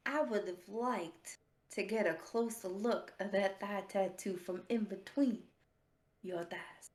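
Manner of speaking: low, quiet imitation of a creep; retold lewd come-on. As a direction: deliver the pickup line low and hushed. Retells stranger's lewd line.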